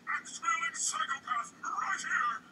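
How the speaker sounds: high, slow hammy tree cry; accusing cry. Acted. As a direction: point the finger and cry out dramatically. Tree voice accusing the axe-wielder.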